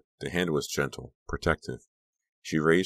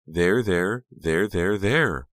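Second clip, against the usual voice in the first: higher, louder repeated comforting; meant as soothing; 5 semitones higher, 5 dB louder, much slower than usual. A narrator's reading. Honey smothering Becca in a hug, insistently soothing. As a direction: overdo the comforting with rising and falling pitch. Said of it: "in a low voice that was meant to be soothing".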